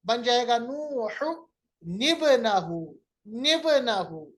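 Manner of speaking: नूह निबनहु, the two words linked slowly; slow joined recitation. Shown as a demonstration. Teacher reciting the third example for students. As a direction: draw out निबनहु, then repeat it clearly. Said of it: "नून जेर नहीं बनाएंगे".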